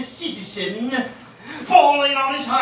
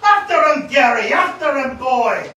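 higher, louder urging yell at a dog; shouting to the dog; 4 semitones higher, 5 dB louder than usual. Acted. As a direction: sic the dog on him. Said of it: "he's shouting out to the bloody dog".

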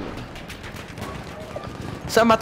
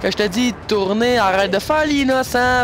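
higher, impatient scolding of a horse; 4 semitones higher than usual. Real, not acted. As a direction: bark orders at a stubborn horse. Scolding his game horse.

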